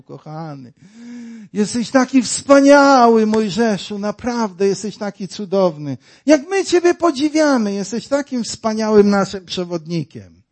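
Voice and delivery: hammed-up flattery of the people; the crowd mockingly praising Moses, gushing and loud; mock gushing praise. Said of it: "Czy tak doceniali?".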